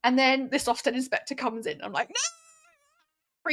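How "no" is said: high squeal of mock panic; imitating her own panic, high and sudden. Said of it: "Freaking out".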